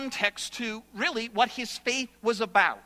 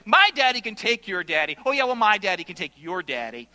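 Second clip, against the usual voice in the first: put-on kids squabbling; 6 dB louder than usual. Playground boys arguing.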